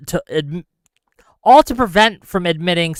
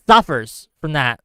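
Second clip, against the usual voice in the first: rhetorical outburst; 4 dB louder than usual. Real, not acted. Angry rhetorical question.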